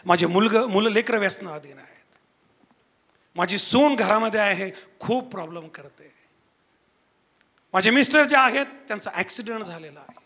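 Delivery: subdued, softly imitated troubled woman; retold tearful confession. Preacher retelling a weeping sister's troubles, subdued. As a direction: list the troubles low, without real sobbing. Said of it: "परत रडत आहे".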